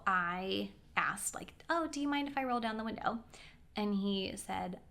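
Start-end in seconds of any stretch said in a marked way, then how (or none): 1.7-3.2 higher, quick, tentative ask; polite request. Retold or imitated. Passenger asking driver about the window, polite. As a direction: ask lightly, not wanting to offend.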